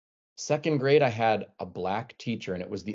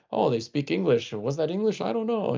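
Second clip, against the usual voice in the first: flustered administrators; 8 semitones higher than usual. Retold or imitated. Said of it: "they're saying something like".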